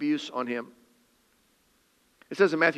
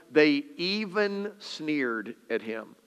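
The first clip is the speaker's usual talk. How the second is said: slow reading; 4 dB quieter, slower than usual. Shown as a demonstration. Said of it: "It's like Luke can't believe it".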